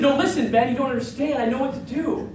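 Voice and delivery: urgent pleading. Acted. Harley urges.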